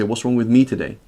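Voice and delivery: asked gently, turning the question on herself; sincerely worried she caused it; concerned self-questioning. Shown as a demonstration. Wife asking her frowning husband, gently concerned. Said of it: "So how is she saying".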